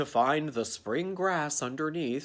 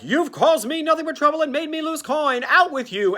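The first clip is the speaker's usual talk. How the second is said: higher, louder blustering rant; angry boss; 11 semitones higher, 5 dB louder than usual. Retold or imitated. Burgermeister throwing Nestor out, in a loud blustering rant. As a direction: bellow him out the door. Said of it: "Burgermeister Ogre Man is like".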